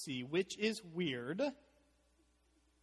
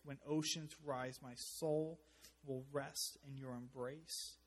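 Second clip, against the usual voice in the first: recited lyrics. Real, not acted. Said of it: "I love the song we sing, Oceans".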